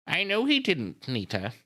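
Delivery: put-on high, slow old-lady voice. A narrator's reading. Miss Miller questioning grieving Nita, slow old lady. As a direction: draw it out as a genteel old woman. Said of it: "she's an old lady".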